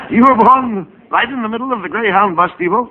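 words broken up by laughter; laughing. Real, not acted. Straight man repeating his partner's punchline, laughing. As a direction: still laughing, repeat it in disbelief.

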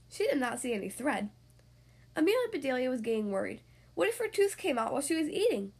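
lively picture-book storytelling voice; reading to children. Acted. Podcast host reading a story to young kids, lively storyteller. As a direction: tell it brightly for six-year-olds.

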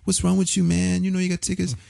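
high-pitched New York lady caller; New York accent. Retold or imitated. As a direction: imitate a scolding New York woman, voice held high. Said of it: "she had this New York accent".

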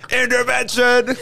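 high slow movie shark shout. Retold or imitated. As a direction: call it out like a cartoon shark. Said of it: "back to Finding Nemo".

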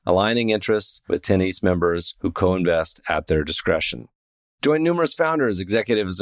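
smooth, even sponsor read. Acted. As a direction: read the ad like a podcast spot. Host reads sponsor ad.

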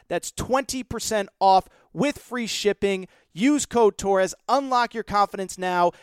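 bouncy, hyped sponsor read with punchy plugs. Acted. Podcast host pitching the sponsor to listeners, hyped ad read. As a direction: sell it to the fellas like a podcast host.

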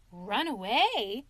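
slow, scornful echo; mock outrage. Mole as washerwoman retorting to the sergeant. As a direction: throw the words back at him.

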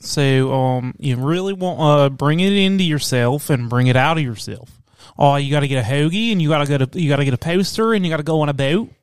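Philly accent. Shown as a demonstration. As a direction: lay on a Philly accent for a demo. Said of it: "your, your Philly accent".

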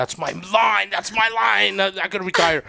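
excited retelling. Retold or imitated. Director thrilled by the porn scene line, excited cry. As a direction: crow about the perfect line.

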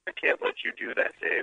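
toneless computer refusing a request; HAL. Pretend. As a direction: imitate a movie computer through a distorted phone line. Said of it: "what's something Hal says?".

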